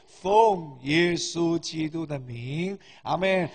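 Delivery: earnest prayer, phrase by phrase; praying aloud for the fathers; public prayer. Real, not acted. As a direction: lead the congregation in blessing, drawing out the closing.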